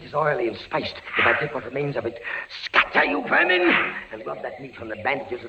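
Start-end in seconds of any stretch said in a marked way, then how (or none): 2.6-3.6 high, sharp cry to drive them off; shout at vermin. Acted. Prisoner yelling at the rats, high and sharp. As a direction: yell at the rats to scatter.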